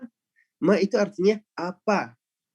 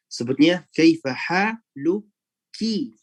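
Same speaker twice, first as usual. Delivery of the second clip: slow, lean on the final "ki" of "haluki"; "haluki" drawn out with the ending marked; stress on ki; 2 semitones higher, much slower than usual. Shown as a demonstration. Teacher showing the form for women, slow on ki. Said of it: "dengan ki".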